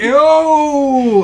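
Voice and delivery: loud, high "yo"; excited. Real, not acted. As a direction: shout it in delight. Excited at the snacks.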